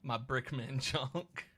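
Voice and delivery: slow, savoured Cockney phrase; put-on Cockney accent. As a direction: relish it slowly in mock Cockney. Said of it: "I like that phrase".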